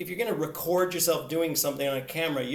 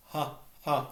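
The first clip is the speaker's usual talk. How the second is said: loose ha; 3 semitones lower, 7 dB quieter, slower than usual. Shown as a demonstration. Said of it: "just the sound ha".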